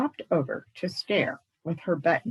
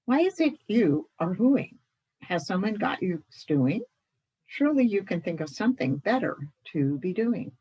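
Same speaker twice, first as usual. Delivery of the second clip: cried out; 3 semitones higher than usual. Acted. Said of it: "cried Scraps".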